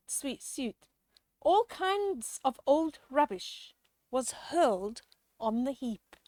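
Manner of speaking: lively rhyming storybook read-aloud; reading to children. A narrator's reading. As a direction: read the rhyme to the kids with relish. Rhyming picture book read aloud.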